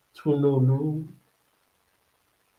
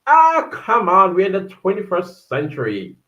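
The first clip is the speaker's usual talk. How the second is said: dismissive protest; 4 semitones higher, 4 dB louder than usual. Real, not acted. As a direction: brush it off. Dismissing the comment.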